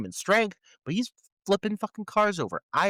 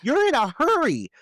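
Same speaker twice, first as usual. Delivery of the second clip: exasperated outburst; 5 semitones higher than usual. Real, not acted. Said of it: "you know what I'm talking about".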